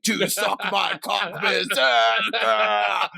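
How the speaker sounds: slow, high mock Russian accent. Retelling a movie scene to his cohost, mock Russian accent. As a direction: drag out berserker in a put-on Russian. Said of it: "He said".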